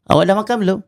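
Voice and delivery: "Awak dah makan belum?" with normal Malay intonation; plain question demo. Shown as a demonstration. Teacher shows correct intonation.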